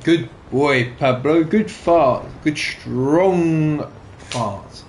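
a hint of a proud pet owner's praise; praising a pet. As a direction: coo at the dog like a proud owner. Praising the dog for farting.

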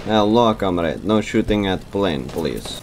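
lightly put-on Russian accent; a hint of a Russian comrade asking nicely; mock Russian accent. Gamer playing a Soviet pilot, mock Russian accent. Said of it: "the Soviet accent".

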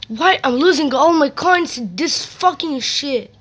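loud, exasperated gamer rant at losing coins; venting hard at the game; frustrated rant. Real, not acted. Gamer raging at viewers over lost coins, loud.

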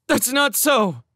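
high, loud desperate protest; pleading outcry. A narrator's reading. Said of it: "she said desperately".

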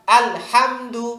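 slow, clear আল হামদু; slow model reading. Shown as a demonstration. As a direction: repeat it slowly for the class. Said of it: "আবার". (ধীরে ধীরে আল হামদু পড়া)

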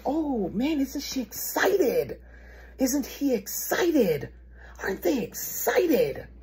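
high, slow sarcastic marvelling; high-pitched, stretched sarcastic gushing; mock excitement. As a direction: draw out each question in fake wonder. Sarcastic thought at lukewarm response.

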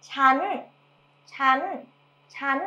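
"ฉัน" on a high tone, repeated. Shown as a demonstration. Teacher drilling "ฉัน" with the high tone. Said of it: "with the high tone".

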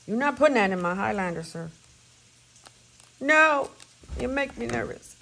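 loud, fast no to her husband; loud protest. Real, not acted. To her husband about gas in her car, loud protest. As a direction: shout him down, half-laughing alarm.

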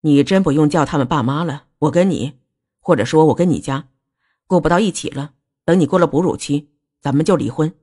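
low, coolly controlled; cold. Acted. Husband announcing divorce to his wife, cold. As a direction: deliver it coldly, without raising the voice. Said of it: "林子瑜冷冷地说".

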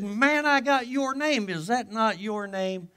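high, slow, gleeful gotcha; triumphant teasing. Retold or imitated. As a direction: savour the win, drawn out. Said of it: "I said".

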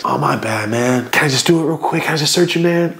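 sheepish polite officer; apologetic cop. Retold or imitated. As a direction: play the cop who feels bad for bothering them. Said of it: "that's how he was talking".

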